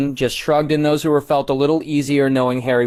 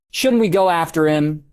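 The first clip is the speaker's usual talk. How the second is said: higher-pitched anxious question; worried; 6 semitones higher than usual. A narrator's reading. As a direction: ask it with mild worry. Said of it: "Molly asked worriedly".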